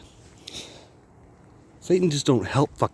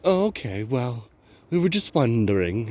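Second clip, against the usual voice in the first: put-on British accent. Neighbours backing off after his questions, mock British accent. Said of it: "they got this stupid British accent".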